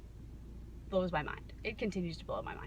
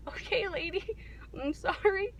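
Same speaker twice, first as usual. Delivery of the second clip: high-pitched and louder, mock sorry; high mock sympathy; 12 semitones higher, 4 dB louder than usual. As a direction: squeak it out in mock pity. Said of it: "I was like".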